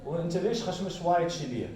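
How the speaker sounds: fast dialect contrast, Darija then Gulf. Shown as a demonstration. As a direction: rattle off both dialect versions. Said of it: "the example between".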